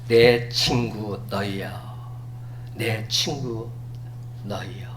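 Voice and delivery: slow, soft and low, full of affection; tender address. Retold or imitated. Jesus calling his disciples friends, tender and soft. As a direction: speak to dear friends gently. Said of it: "참으로 애정어린 표현 아닙니까".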